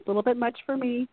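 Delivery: mildly dismissive, with a small laugh; eye-rolling dismissal. Retold or imitated. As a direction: brush it off with a mock eye-roll. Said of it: "people are rolling their eyes like".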